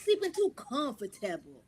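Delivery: imitated sergeant's yell, high and loud; drill sergeant PA announcement. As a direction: bawl it out like a sergeant on the PA. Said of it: "went on the P A in the whole box and said".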